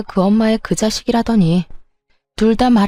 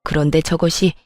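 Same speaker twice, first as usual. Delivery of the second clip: fake crying. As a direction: play the wronged mother with a put-on lament to her son. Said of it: "입으로만 울고 있는 시모".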